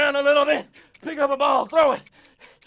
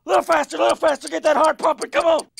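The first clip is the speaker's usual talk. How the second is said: pep coach urging; 4 semitones higher, 4 dB louder, much faster than usual. Acted. Coach urging during exercise.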